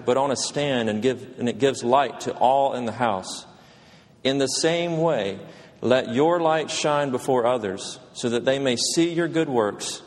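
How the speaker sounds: scripture reading. Acted. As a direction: read the passage with weight. Reads scripture passage aloud.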